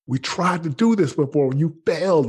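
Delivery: high-pitched, upset protest; imitated tearful reproach. Wife reminding husband he failed before, imitated tearful reproach. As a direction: act out a crying wife's high-voiced reproach. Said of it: "she started to cry".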